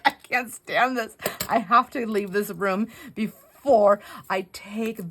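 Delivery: high, strained frustrated voice; lightly hammed frustrated self; mock upset self. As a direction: whine it out as if at the end of your rope. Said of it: "I'm so upset".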